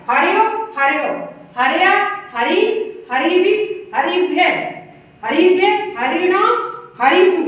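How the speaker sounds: chant-like list, each form lifted at the end; declension recitation. Shown as a demonstration. Teacher reciting the forms of Hari for students, declension recitation. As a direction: recite each form separately with short pauses. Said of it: "बोल के दिखा रही हूँ आपको".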